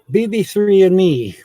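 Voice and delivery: casual, careless "and me"; wrong grammar. Shown as a demonstration. Correcting her own grammar, wrong version first. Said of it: "That's not proper English".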